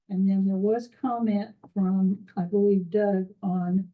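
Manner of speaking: muffled voice, slightly unclear. Real, not acted. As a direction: talk with the sound muffled. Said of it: "you're just muffled enough".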